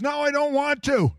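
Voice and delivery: punchline. Retold or imitated. Woman telling Brother Hagin she no longer wants to dance, laughing. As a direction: deliver her complaint while cracking up. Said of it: "She says".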